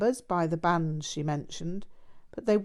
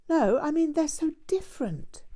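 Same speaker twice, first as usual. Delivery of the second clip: much higher, ending in a whisper; insistent girl; 10 semitones higher, 3 dB louder than usual. A narrator's reading. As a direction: press the point, then whisper it away.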